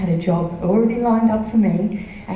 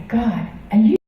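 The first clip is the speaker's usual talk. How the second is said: incredulous plea to God; 7 semitones higher than usual. Retold or imitated. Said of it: "there were times when I would say".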